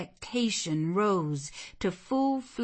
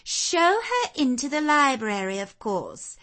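high, louder imperious interruption; cutting in; 9 semitones higher, 6 dB louder than usual. Acted. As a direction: cut mother off with an order. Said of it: "cut in the angel girl".

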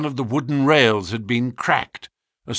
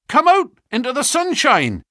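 cried out; 14 semitones higher, 4 dB louder than usual. A narrator's reading. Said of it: "cried her brother".

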